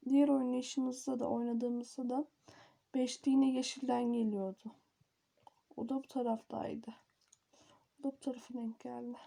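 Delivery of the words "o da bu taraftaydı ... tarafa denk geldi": whispering. Real, not acted. Quiet aside during play.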